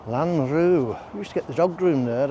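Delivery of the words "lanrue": lilting Welsh accent on the place name. Shown as a demonstration. Vlogger savouring a place name on the walk, Welsh accent. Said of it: "say it in a Welsh accent".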